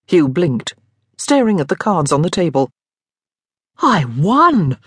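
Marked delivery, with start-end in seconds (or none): 3.8-4.8 mild amazed disbelief; Daniel stunned by his own win; in awe. A narrator's reading. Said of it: "with not inconsiderable awe".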